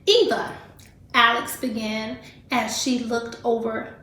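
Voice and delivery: lively read-aloud storytelling voice; reading to children. Acted. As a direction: read the story to a class of kids. Teacher reads picture book aloud.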